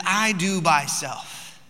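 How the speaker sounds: put-on very slow, stretched-out toddler quote; imitating toddler. Dad repeating what his daughter says, slow toddler imitation. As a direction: draw each word out like a determined two-year-old. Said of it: "She says".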